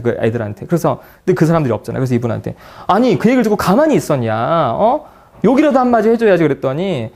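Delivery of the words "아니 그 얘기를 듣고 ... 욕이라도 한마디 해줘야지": rising, frustrated push; indignant scolding. Retold or imitated. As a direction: scold her for not fighting back. Scolding client for not reacting.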